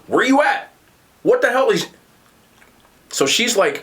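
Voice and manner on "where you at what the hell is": high-pitched mock yell; retold screaming. Dude outside at two A M calling for his girlfriend, mock screaming. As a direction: imitate a man calling out, not full volume. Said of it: "a dude outside screaming this girl's name".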